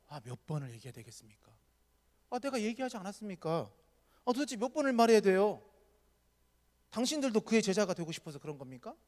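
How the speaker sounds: exasperated, taunting retort; provoking. Retold or imitated. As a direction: needle them, fed up. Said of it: "굉장히 지금 도발하고 있는 거죠". (짜증 섞어 비꼬며 도발하는 말투)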